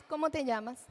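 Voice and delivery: level, plain parrot of the question; child echoing. Shown as a demonstration. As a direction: repeat it back without meaning. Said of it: "tenemos también la ecolalia".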